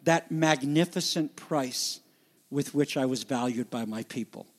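mildly sarcastic, falling away at the end; sarcasm. Retold or imitated. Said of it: "and here's the sarcasm".

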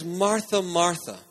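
a tender call of her name; gentle. Shown as a demonstration. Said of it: "He says".

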